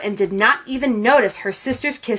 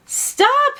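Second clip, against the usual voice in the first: alarmed cry. A narrator's reading. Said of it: "Mama said".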